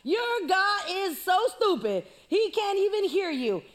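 loud, slow mocking taunt; hammed-up giant taunt. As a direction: sneer at them like a bully giant. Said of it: "talking all this mess".

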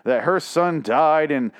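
lightly voiced smarmy politician; mock politician. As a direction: play a smug politician telling a sob story. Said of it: "this is like a politician".

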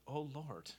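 mock archaic pious prayer, lightly done; lightly hammed-up archaic prayer; mock King James prayer. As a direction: parody an old-fashioned formal prayer. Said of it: "prayers that sounded a lot like".

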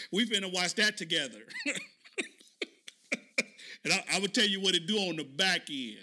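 chuckling through the words; laughing. Real, not acted. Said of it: "laughing while saying".

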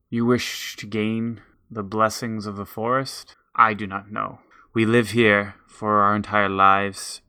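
a hint of a measured forest elder; wise forest elder.

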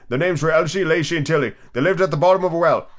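lightly voiced sleepy creature; hurried Dormouse. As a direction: reel off the tale half asleep. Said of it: "began in a great hurry".

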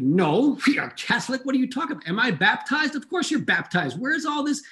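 high, exasperated mock dad; imitating an upset dad. Dad scolding his son, high and exasperated. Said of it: "Now he's upset".

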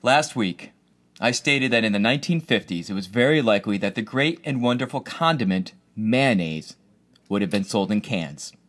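solemn official apology read aloud; formal statement. Pretend.

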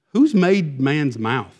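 slow, low, pointed question; frustrated God. Retold or imitated. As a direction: put the question slowly, in mild exasperation. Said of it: "he's frustrated".

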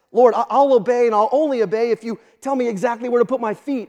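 lightly acted bargaining plea, starting loud; mock bargaining. Preacher voices a believer setting terms for obeying God, mock bargaining.

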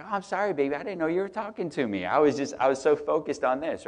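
grovel a little, playfully; sheepish apology. Retold or imitated. Pastor retells apologizing to his wife, sheepish and high. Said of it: "I was like".

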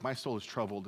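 understated, sincere prayer; earnest prayer. Acted. Jesus praying as at Gethsemane, understated earnest prayer. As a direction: say it as a plain, heartfelt prayer. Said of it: "is it really that prayer like at Gethsemane".

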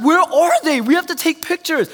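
put-on the bride frets about the missing boys; stressed bride. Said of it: "And she's like".

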